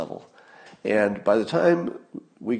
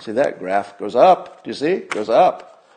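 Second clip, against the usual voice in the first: condescending explainer. Retold or imitated. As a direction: spell it out like to a kid. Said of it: "The only way they can explain it is say".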